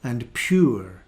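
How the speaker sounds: "sure", "pure" with sounded R, "law", "jaw" slowly; Scottish vowels, slow; Scottish accent. Shown as a demonstration. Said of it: "I would say".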